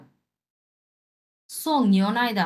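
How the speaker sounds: slow teaching Chinese; very slow model reading. Shown as a demonstration. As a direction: stretch each syllable for students. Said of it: "সাহায্যকারী verb".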